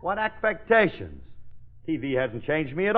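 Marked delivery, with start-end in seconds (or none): 0.0-1.2 affected diva. Acted. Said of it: "you're full of affectations".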